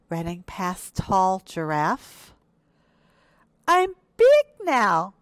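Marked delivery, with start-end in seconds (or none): 3.7-5.1 very high, loud, drawn-out boast; triumphant cry. A narrator's reading. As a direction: shout it slowly to the whole jungle. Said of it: "cried Little Hippo".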